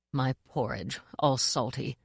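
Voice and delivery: soft, dazed murmur. Acted. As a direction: mumble it half to yourself. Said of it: "murmured the Duke".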